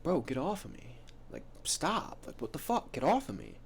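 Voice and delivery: retold protest. Lily telling a handsy guy to back off, mild mock protest. Retold girl fending off advances.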